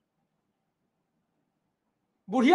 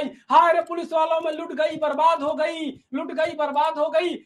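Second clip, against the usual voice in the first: mock shriek for help; 4 semitones higher than usual. Old woman screams to the police for help, hammed-up wail. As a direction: cry out to the police as if robbed. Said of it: "जोर से चीख के चिल्लाई".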